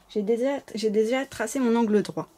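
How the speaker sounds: slight lisp on the s sounds; speaking with a little lisp. Real, not acted. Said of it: "je zozote un peu".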